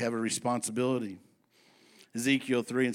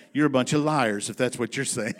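laughing quote; 4 dB louder than usual. Retold or imitated. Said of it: "he said it like this".

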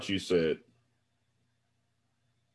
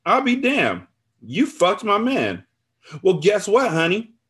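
high, loud taunting tirade; vengeful gloating; 12 semitones higher, 7 dB louder than usual. A narrator's reading. Friend reveals her revenge affair, loudly gloating. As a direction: build to a triumphant shout, stretching key words.

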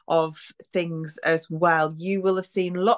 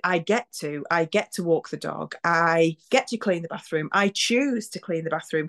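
positive reframing. Shown as a demonstration. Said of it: "but actually you get to".

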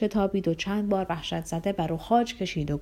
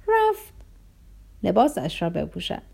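put-on boy's voice. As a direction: pitch jumps up for the boy. (صدای پسربچه)

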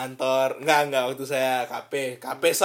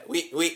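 imitated hiccups; 3 dB quieter than usual. Shown as a demonstration. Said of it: "kalau di tengah jalan dengar suara saya".

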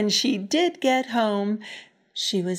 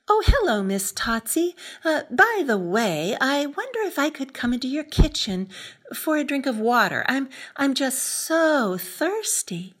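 practiced polite greeting; 4 semitones higher, 4 dB louder than usual. Acted. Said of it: "She practiced saying something".

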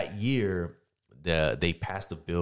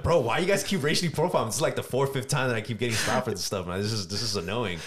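indignant complaint; 4 semitones higher than usual. Retold or imitated. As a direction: complain to the cop, pitched up and exasperated. Retold complaint to cop.

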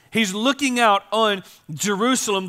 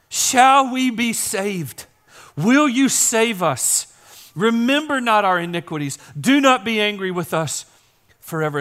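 pleading prayer; 3 semitones higher than usual. Acted. Voicing Isaiah's plea for salvation.

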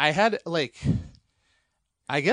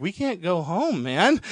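slow, higher mock-panicked plea; freaking out; 4 semitones higher, 4 dB louder, slower than usual. Tripping friend pleading with Mike, mock freak-out. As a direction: replay a panicked plea, pitched up and drawn out. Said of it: "I just start freaking out".

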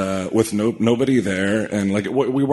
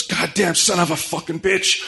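high-pitched retold outburst, no extra volume; imitated angry yell; 9 semitones higher than usual. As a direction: act out a crew member cursing in fury. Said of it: "He yells at me".

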